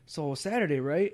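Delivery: lightly acted hesitant, puzzled opener, drawn out; confused friend. Confused friend bringing up Saturday at the lockers, hesitant. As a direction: imitate a friend slowly feeling his way into a question. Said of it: "like, confused".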